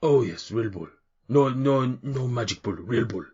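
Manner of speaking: lightly voiced cheery half-orc in broken Common; a hint of a jolly orc bull-handler. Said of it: "another half orc".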